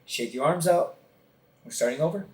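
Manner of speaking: a touch of a steady, unhurried instructor; calm instructor. Retold or imitated. Instructor calmly restarting the drill for exhausted sniper students. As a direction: keep it level and unbothered, resetting the drill. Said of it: "real calm, was like".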